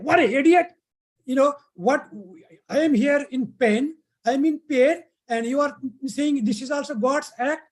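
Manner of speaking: mock furious king in pain; angry yell. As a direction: snap at him like a hurt, furious king. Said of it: "and he yelled at him".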